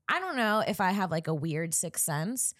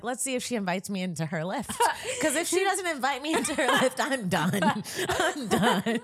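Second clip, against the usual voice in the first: laughing; 4 semitones higher than usual. Retold or imitated. Acted inner monologue, laughing.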